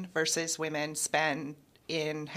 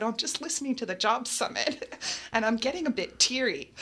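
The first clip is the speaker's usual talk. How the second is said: laughing admission; 6 semitones higher than usual. Retold or imitated. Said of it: "I said".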